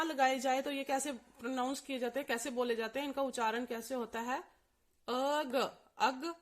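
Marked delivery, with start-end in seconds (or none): 5.1-6.3 अग said plainly as a-g with no ं nasal; without the nasal. Shown as a demonstration. Teacher shows the word without the bindi. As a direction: say अग with no nasal before g. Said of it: "अगर इसको हम नहीं बोले तो".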